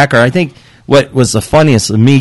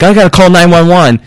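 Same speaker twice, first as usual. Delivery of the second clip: panicked; 4 semitones higher, 4 dB louder than usual. Retold or imitated.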